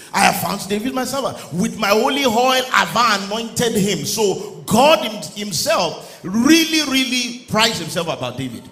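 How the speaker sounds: loud, rising preacher's cadence; full-force preaching. Acted. Pastor exhorting the congregation about David, loud preaching. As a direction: preach it out to the back pews.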